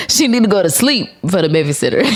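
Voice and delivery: giggling as she admits it; laughing through it. Real, not acted. Mom vlogging to viewers, laughing at her own excuse.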